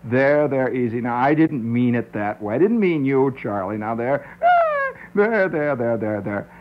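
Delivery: mock soothing. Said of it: "you do with a little".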